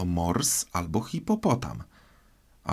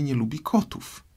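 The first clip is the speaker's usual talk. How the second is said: put-on high, polite girl's apology; apologetic Alice; 5 semitones higher than usual. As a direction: gently admit the slip in a raised voice. Alice apologising to offended mouse.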